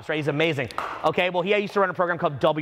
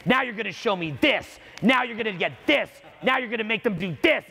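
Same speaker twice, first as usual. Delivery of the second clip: mock bossy demands, slightly raised; demanding; 5 semitones higher than usual. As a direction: imitate a pushy client listing orders.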